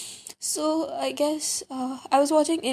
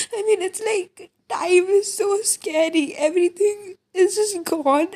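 tearful; 4 semitones higher than usual. Real, not acted. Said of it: "I have no idea why I'm crying this much".

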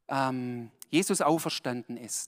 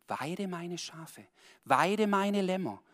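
slow solemn charge; 3 semitones higher, slower than usual. Acted. Quoting Jesus slowly.

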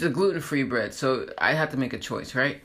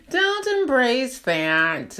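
laughing; 14 semitones higher, 4 dB louder, much slower than usual. Real, not acted. Laughing repeat of warning.

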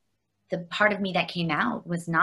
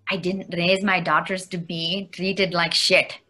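quoting mother; slower than usual. Retold or imitated. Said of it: "she held my hand and she said".

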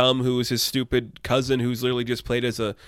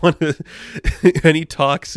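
laughing; 5 semitones higher, 7 dB louder than usual. Real, not acted. Laughs mid-sentence.

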